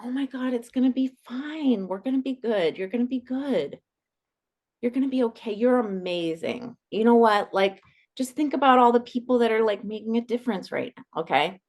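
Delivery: pat them on the head with words; soothing reassurance. Shown as a demonstration. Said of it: "And I say".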